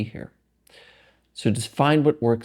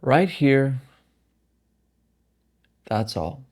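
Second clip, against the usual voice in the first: calm meditation guide, phrases set apart by long pauses; guided meditation. Acted. Guiding listeners through a meditation practice, calm and unhurried. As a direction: guide them gently, leaving space between phrases.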